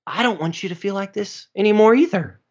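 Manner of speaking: gently mocking divine reply; voice of God. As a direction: play it back as an obvious duh from God. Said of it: "God just responding back to me and going".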